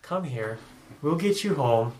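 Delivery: soft, gentle coaxing; calm relaxing man. Retold or imitated. GM voicing the calm man in front of the dragon, soft and gentle. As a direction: soothe her like a frightened pet. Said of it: "the nice, calm, relaxing man".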